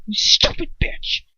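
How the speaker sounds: slow whispered curse; muttered curse. A narrator's reading. Lucius cursing Bellatrix under his breath. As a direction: mutter it through contempt. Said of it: "I hear him mutter".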